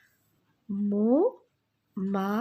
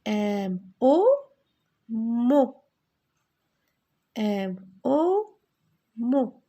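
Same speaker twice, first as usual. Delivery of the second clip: loud syllable model; 5 dB louder, much slower than usual. Shown as a demonstration. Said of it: "Regardez le M".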